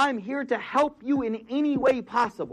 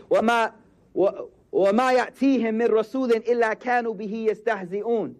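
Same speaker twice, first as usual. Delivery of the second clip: quick Quran recitation; much faster than usual. Acted.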